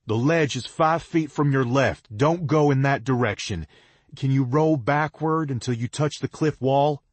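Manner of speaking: put-on calling directions down to the fallen girl. A narrator's reading. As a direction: guide her from far above.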